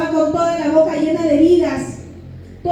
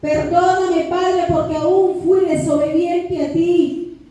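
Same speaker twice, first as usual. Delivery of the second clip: slow, drawn-out plea to God; imploring testimony prayer, stretched words; retold pleading prayer; 3 semitones higher than usual. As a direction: beg forgiveness with rising earnestness. Retold prayer begging forgiveness at the altar.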